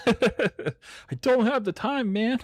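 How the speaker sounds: high, slow, laughing through it. Real, not acted. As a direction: laugh the words out, drawn out. Laughs while repeating line.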